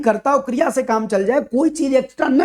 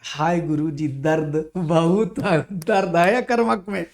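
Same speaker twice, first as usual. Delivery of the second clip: mock student groan; 3 semitones lower, slower than usual. Student voiced groaning over topic.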